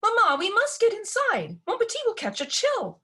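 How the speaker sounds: high, whiny pout. Acted. Spoiled daughter pouts at her mother, high and whiny. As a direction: sulk at mother to get indoors.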